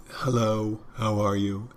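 mechanical, unvarying hello; rote greeting. Shown as a demonstration. Server repeating the same phrase to customers, rote. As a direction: recite it by habit without interest. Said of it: "and rote every time".

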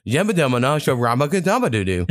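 laughing Sims-style babble; mock the scrambled speech of a concussed kid; giggling nonsense babble; garbled gibberish. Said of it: "it sounded like I was fucking in The Sims".

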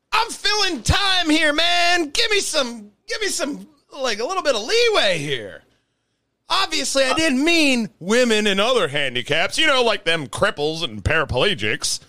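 high, loud pleading; exasperated high protest. Real, not acted. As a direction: beg for leeway half-laughing. Defending himself, heated.

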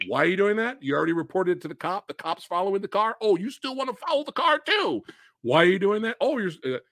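mock exasperated yelling. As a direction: pester the movie characters in a climbing, disbelieving voice. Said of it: "yelling at the female character".

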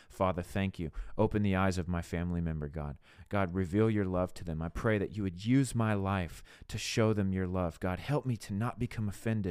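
subdued, sincere intercession; earnest prayer. Shown as a demonstration. Speaker interceding with God for a family member, earnest prayer.

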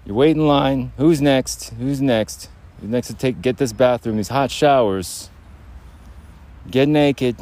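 hammed-up shower enforcer calling out orders; bathroom bully. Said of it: "You have the bathroom bully".

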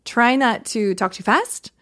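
said slowly, drawn out; measured, deliberate delivery; slowed demo. Shown as a demonstration. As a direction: pace it slowly as an example. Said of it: "I would say".

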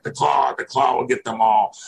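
imitating a wrestler's menacing German-accented catchphrase. Wrestling fan recalling the Baron who scared him, German accent. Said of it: "does the thing with the German accent".

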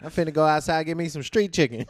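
lightly put-on old-timey voice. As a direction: toss it off in a put-on voice. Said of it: "Is that your old-timey voice?".

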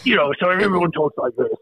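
hammed-up Devon pirate accent. Shown as a demonstration. Joking to co-hosts about how Devon locals talk, pirate accent. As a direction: joke West Country pirate talk. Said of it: "where all the pirates are from".

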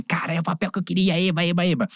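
retelling own delight at winning a part; quick, mildly thrilled cheer; excited. Retold or imitated. Excited retelling of landing a role.

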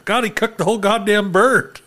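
amused mock outrage, laughing; laughing disbelief. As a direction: laugh out the shock at the bird. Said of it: "and you're like".

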